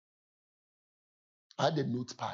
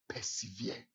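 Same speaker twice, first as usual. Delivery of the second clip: quiet solemn word; 4 semitones lower, 9 dB quieter, slower than usual. Retold or imitated. Quoting his one-word charge.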